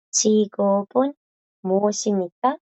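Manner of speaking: 직업은 then 무엇입니까 split and rising. Shown as a demonstration. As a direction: break 직업은 무엇입니까 into parts. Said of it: "Y la de abajito".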